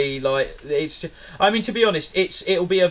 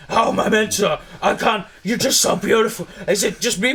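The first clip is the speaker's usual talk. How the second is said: higher-pitched mock Vin Diesel, swooning with laughs; 5 semitones higher than usual. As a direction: ham up a smitten action star flirting, higher. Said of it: "he's just going".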